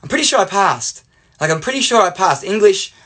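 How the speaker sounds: insistent, pitch lifted on the claim; defensive. Retold or imitated. Student to teacher about failing English, defensive. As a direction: push back as the wronged student. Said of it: "I was a little bit defensive".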